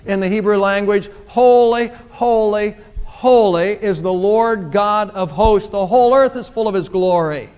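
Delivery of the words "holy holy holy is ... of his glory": grand proclamation of the angels' song; proclaimed cry. Acted. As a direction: call it out like the angels. Angels' cry quoted in sermon.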